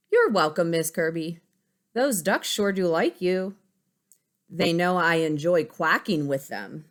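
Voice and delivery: put-on cheerful kid answering teacher; Bobby voice.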